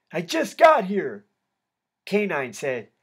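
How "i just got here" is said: higher, louder, slow call; yelled out. A narrator's reading. Inmate answering K nine from his cell, yelled out. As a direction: call the answer across the room, stretched out. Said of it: "I yelled out".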